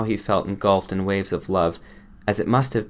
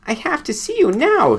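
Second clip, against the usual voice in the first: high, loud desperate scream; 7 dB louder than usual. A narrator's reading. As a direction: scream it at the doctor. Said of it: "she was screaming".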